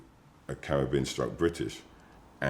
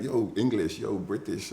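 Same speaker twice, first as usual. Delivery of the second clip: put-on high, calling out in a Jamaican accent; 8 semitones higher than usual. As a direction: street greeting with a Jamaican lilt. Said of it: "it was like".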